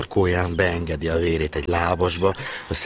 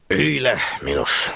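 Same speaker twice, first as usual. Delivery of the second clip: softened; 7 semitones higher, 4 dB louder, slower than usual. A narrator's reading. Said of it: "szelídült meg a főnök úr".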